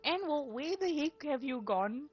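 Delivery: high, loud call across the room. Real, not acted. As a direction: shout for Anwar to come back. Calling out for missing friend.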